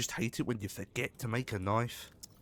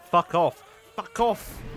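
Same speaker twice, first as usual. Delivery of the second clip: much louder, higher, yelled all out; furious yell; 8 semitones higher, 11 dB louder than usual. Real, not acted. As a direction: scream it in real rage at the fish. Attacked by crash fish.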